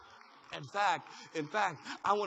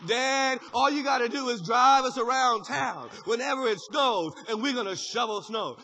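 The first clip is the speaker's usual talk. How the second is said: eager son; 2 semitones higher, 7 dB louder than usual. Retold or imitated.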